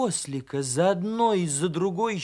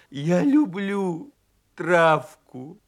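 desperate wolfish plea; 2 semitones higher, 6 dB louder, much slower than usual. Acted. Donkey backing from bear cub, pleading loudly.

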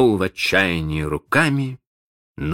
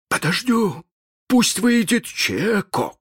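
grumbled; slower than usual. Acted. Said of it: "проворчал Старки".

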